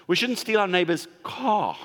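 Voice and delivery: imply anything but the car is fine; stress on car. Shown as a demonstration. Preacher joking to the congregation, weight on "car". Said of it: "you can highlight where you feel like the accent".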